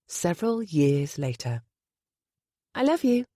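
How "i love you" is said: said sweetly. Acted. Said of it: "Penny said sweetly".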